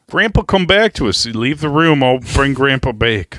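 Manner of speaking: joking carer reviving a grandpa; mock nurse. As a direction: shoo the family out. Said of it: "old folks' home like this".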